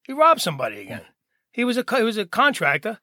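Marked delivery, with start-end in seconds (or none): 0.1-1.0 lightly voiced resigned grandma, lower; imitated low, weary reply; resigned grandmother.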